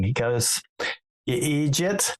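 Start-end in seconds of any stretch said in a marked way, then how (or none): 1.2-2.2 lightly imitated Irish "eejit", pitched up; Irish accent. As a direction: scold with a touch of Irish accent. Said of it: "in a very Irish accent".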